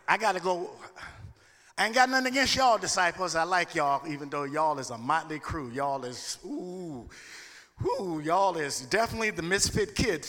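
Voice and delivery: country-talking Jesus voice; playing Jesus with a country accent; southern black accent. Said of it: "I got a little country in me".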